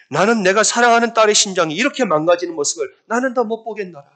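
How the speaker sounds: high, impassioned retold declaration; anguished plea. God pleads with his beloved daughter, anguished plea. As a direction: voice a loving parent who can't bear it.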